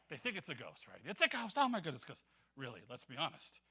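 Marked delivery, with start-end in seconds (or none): 1.0-2.0 mock freak-out. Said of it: "they freak out".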